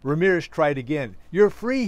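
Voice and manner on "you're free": high, loud yell in narration; screamed announcement. A narrator's reading. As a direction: try harder to get through to the deaf. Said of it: "he screamed".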